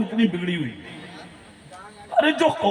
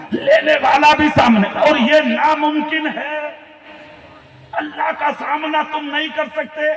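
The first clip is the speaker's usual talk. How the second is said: full-force preaching; 3 semitones higher than usual. Real, not acted. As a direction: hammer out each point to the crowd. Preacher expounding to a crowd. (بلند، پرجوش خطیبانہ انداز)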